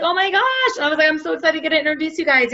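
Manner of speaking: high squeal of delight, then quick chatter; excited introduction. Retold or imitated. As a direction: gush as if thrilled to connect two friends. Acting her excited introduction.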